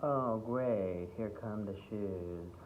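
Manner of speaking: weary, drawn-out sarcastic groan of a line; slow, let-down mock enthusiasm; unimpressed auditioner. Bored auditioner facing an overdone monologue, unimpressed. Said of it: "they might be like".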